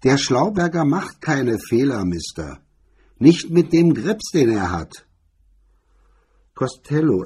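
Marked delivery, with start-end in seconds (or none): 0.0-5.1 loud, booming jeer. A narrator's reading. MacDonald jeers at the smart stranger, loud and booming. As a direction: boom it across the room. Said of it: "MacDonalds raue Stimme dröhnte durch".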